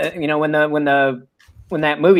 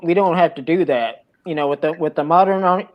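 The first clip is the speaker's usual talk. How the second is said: talking through popcorn; chewing while speaking; mouth full. Real, not acted. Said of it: "I got a mouthful of popcorn".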